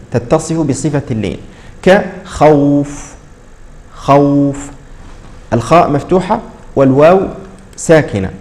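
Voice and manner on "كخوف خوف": خوف drawn very slowly with a soft glide; soft leen. Shown as a demonstration. Teacher models the soft vowel in خوف, slow. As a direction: ease gently through خوف.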